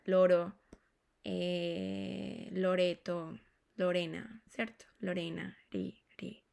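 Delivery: "Loro, Loreto, Lorena" with a light tap; single tapped R. Shown as a demonstration. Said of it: "esa R es la que se".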